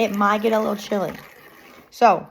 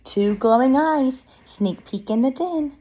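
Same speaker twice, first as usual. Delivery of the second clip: put-on expressive read-aloud to young children; picture-book narration. Reading a bear story to children, lively narration. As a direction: read it like story time, lilting.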